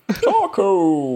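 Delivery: mock Latin American accent. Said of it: "Can you not hear my Latin?".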